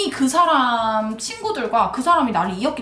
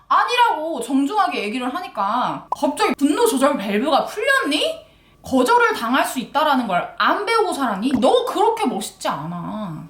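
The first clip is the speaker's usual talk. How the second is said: emphatic retold tirade; scolding; 3 semitones higher than usual. Woman scolding a man who can't take rejection, retold tirade. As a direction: act out chewing someone out. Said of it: "이러면서 내가 막 뭐라 그랬어".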